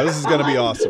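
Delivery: laughing through forced cheer. Real, not acted. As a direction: chuckle while insisting. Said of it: "I don't believe you".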